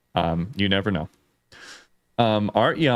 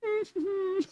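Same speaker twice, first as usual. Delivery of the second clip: oblivious guard noise; 9 dB quieter than usual. Retold or imitated. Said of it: "The guards are just like".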